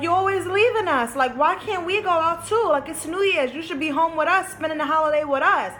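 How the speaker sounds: mock the bratty kid protest; imitating her younger sassy self; sassy child. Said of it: "I was getting sassy".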